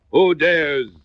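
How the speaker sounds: a prince's outraged demand; hoarse angry demand. Acted. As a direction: challenge the courtiers, furious. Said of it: "he demanded hoarsely".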